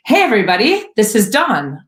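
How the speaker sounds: put-on loud, bright exclaim in a British accent. Lexi introducing Dawn to the kitchen crowd, loud British accent. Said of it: "Lexi exclaimed loudly in a proper British accent".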